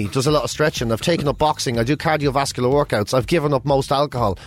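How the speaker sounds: a hint of Welsh as a famous singer; Welsh accent. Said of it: "and then he says".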